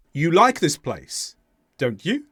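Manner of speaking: "don't you" going up on "you"; unsure tag, lifting "you" at the end; rise on YOU. Shown as a demonstration. Teacher tests learners with a genuine question, "you" rising. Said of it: "the intonation went up on you".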